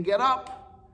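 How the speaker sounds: high, loud cry to get up; rallying yell. Retold or imitated. Pastor urging grieving children on, a high loud shout. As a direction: shout it like a coach urging a fighter up. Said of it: "hear Pastor Stump in your ears saying".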